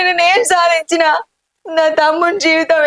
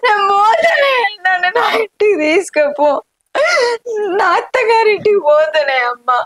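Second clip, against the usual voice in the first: high sobbing shout fading to a tearful cry; crying outburst; 4 semitones higher than usual. Acted. Daughter refusing to stay, crying out at her mother. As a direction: cry it out in protest, high then settling.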